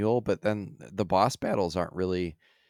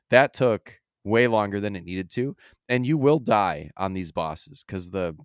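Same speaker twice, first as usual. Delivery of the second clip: ordinary talk, nothing marked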